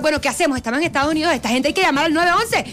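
flustered siblings. Retold or imitated. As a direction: figure it out in a hurry. Los hermanos discuten qué hacer. (hermanos nerviosos, voz más aguda)

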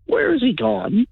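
puzzled high call; wondering where he went; high, slow mock worry. Mimicking listener calling out.

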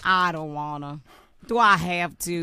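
put-on lightly sulky Texas accent; playful Southern US whine; put-on Southern drawl. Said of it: "Can you do it in your normal voice".

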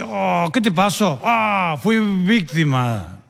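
very slow, drawn-out lament; drunk's lament. Acted. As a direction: moan it slowly, hamming up the misery. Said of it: "se agarraba la cabeza".

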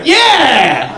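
high frantic manager yelling; flipping out. Retold or imitated. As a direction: panic like a manager who caught a thief. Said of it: "he's, like, flipping out".

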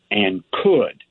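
could slightly leaned on as the key word; stress on could. Real, not acted. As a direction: mark the word could so no one misses it. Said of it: "that's the key word".

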